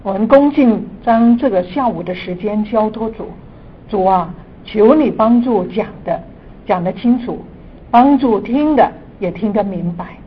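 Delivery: earnest prayer voice. Acted. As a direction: pray fervently, building to emphasis. Opening prayer before teaching.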